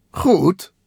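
high, loud villain's remark; taunting villain. A narrator's reading. Rival Kabuto to Takel mid-race, loud and taunting.

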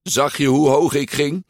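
high, excited boasting question; thrilled. A narrator's reading. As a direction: brag breathlessly about the stunt. Thrilled boy after his crash. (opgetogen, met hoge stem)

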